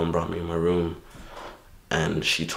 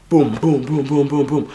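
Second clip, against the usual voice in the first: loud booming hits; 9 semitones higher, 8 dB louder than usual. Retold or imitated. Swinging in a krump battle.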